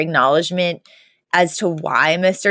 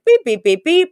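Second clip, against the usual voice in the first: short even beeps mimicking dialing; spoken dial tones, one per button; imitated phone beeps; 11 semitones higher, 3 dB louder than usual. He fakes dialing a phone in the hallway, imitated beeps. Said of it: "pulls out a fake phone and he's like".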